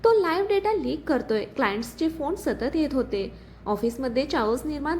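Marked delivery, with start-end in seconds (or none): 0.0-1.4 alarmed. Acted. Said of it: "Nikhil घाबरला".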